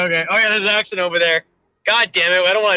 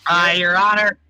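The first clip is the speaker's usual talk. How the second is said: put-on Minnesota accent.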